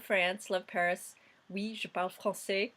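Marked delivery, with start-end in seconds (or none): 1.5-2.7 a short French line in a decent French accent; Oui, je parle français in an easy French accent; French phrase. Shown as a demonstration. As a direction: say it like a proper French speaker. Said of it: "I have a pretty decent accent".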